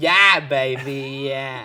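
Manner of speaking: put-on accent slipping and drifting toward Australian. Joking about ghosts quoting movies, the co-host tries an Austin Powers impression sounding Australian. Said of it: "sound Australian?".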